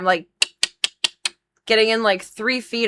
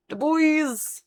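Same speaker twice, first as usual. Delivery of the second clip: "bois" sung up high and falling; high playful "Du bois"; high sing-song; 9 semitones higher than usual. Shown as a demonstration. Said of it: "saying the name two ways".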